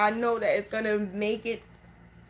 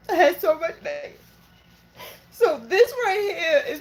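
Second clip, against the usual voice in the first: voice breaking; 8 semitones higher, 4 dB louder than usual. Real, not acted. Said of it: "I'm so sorry I'm emotional".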